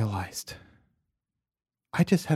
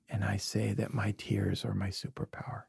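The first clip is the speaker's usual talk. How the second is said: soft confession; 6 dB quieter than usual. Real, not acted. Tender confession about tears.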